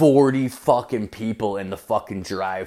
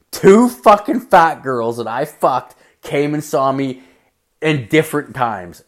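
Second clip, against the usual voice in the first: loud outburst; 3 semitones higher, 5 dB louder than usual. Real, not acted. Comic telling the crowd, loud outburst. Punchline, shouting the reveal.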